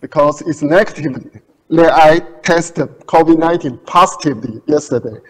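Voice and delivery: muffled behind a face mask; through a face mask. Real, not acted. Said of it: "I have to wear a face mask".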